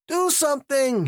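high-pitched acted panic; frantic scream. A narrator's reading. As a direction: scream for help through pitch alone. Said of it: "he screamed".

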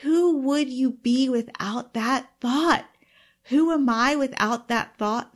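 a real touch of chills in the voice. Real, not acted. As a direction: ask it again slowly, almost in awe. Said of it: "I just got chills again when I said that".

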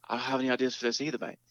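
imitating an English bandmate's accent; quick line in a put-on British accent. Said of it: "You got accents".

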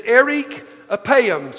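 "erik apaim" sounded out carefully; "erik apaim" with a pause between the words; Hebrew pronunciation. Shown as a demonstration. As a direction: present "erik apaim" as a Hebrew term, word by word. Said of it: "let's try to sound intelligent this morning".

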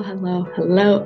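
usual speaking voice

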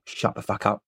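quoting her late partner's favourite line, muttered softly; quiet mock quote. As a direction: toss it off under the breath. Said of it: "Tom used to love to say".

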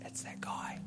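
whispered, offhand aside; hushed dismissive aside. Retold or imitated. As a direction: mutter it like the crowd brushing him off. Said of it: "And they go".

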